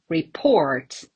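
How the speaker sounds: "report" as ri-PORT; stress on second syllable. Shown as a demonstration. Teacher showing noun and verb match, "report" stressed on the second syllable. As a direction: stress the end of "report", short first syllable. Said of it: "with the same pronunciation".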